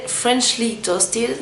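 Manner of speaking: shade name said slowly in an English accent. Real, not acted. Beauty vlogger naming her eyeshadow shade, in an English accent. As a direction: pronounce Freshly Toasted the English way, slowly. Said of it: "on excusera mon accent anglais".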